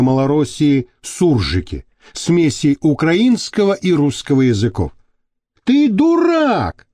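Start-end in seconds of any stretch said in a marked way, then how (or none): 5.6-6.9 shrill, slow furious cry; fly off the handle; angry outburst. A narrator's reading. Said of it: "взвился Ваник".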